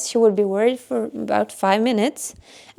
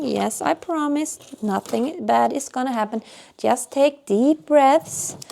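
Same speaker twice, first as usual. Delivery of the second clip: gentle reassurance; 3 semitones higher than usual. Retold or imitated. Mother calming crying daughter.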